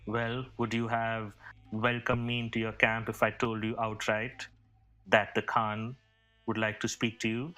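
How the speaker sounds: lightly voiced formal emissary; a hint of a courtly envoy, measured rhetorical questions; courteous envoy. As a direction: reason with her formally, lightly in character. Player voices Yasser defending himself.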